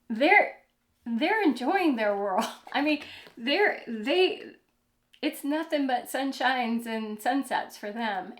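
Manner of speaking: bright rush of enthusiasm; excited. Real, not acted. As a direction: lift it up, delighted. Excited about the young.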